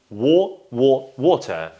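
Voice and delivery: syllable build-up to British "water" with "aw"; British O sound. Shown as a demonstration. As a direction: drill "Wo", "wo", then "water". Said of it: "it's gonna be O sound".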